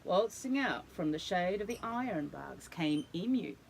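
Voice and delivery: put-on lively storybook read to a child; animated read-aloud for a little one; reading to children. A narrator's reading. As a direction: tell it like a bedtime picture book. Reads picture book to child.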